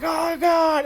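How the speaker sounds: high, loud mock scream; hammed-up shriek of panic; panicked shout. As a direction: yell out in fake terror. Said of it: "they're like".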